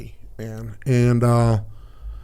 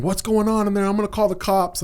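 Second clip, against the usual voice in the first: higher, worried call through a door; mock alarm; 7 semitones higher than usual. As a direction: imitate a panicked woman, lightly. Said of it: "she's, like, freaking out".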